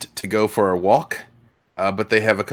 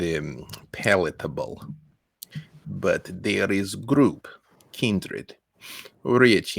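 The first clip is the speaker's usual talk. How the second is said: put-on Russian accent; 4 dB quieter, slower than usual. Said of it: "cannot do a prolonged Russian accent".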